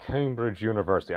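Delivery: half-hearted Cambridge British accent; bad British accent. Shown as a demonstration. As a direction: try British and miss. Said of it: "I can't do a British accent".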